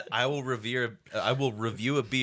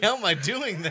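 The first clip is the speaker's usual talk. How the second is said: ventriloquist voice; 7 semitones higher than usual. Retold or imitated. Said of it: "David can throw his voice".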